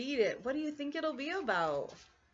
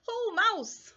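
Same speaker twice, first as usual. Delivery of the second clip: lightly voiced cheerful hare; a hint of a jolly hare; 9 semitones higher than usual. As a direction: greet him like an old friend. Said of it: "says Hare".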